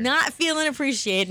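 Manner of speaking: playfully wounded; mock hurt. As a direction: pretend sulk. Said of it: "I'm not feeling very appreciated".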